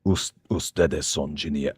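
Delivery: slow, careful put-on Spanish accent; rolling out the Spanish with an accent. Streamer greeting Spanish-speaking fans in a Spanish accent. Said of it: "I feel the need to give an accent".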